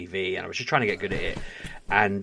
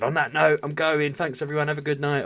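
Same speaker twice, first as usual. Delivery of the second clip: cheery sign-off; 7 semitones higher than usual. Retold or imitated. Acting the sign-off he should have made.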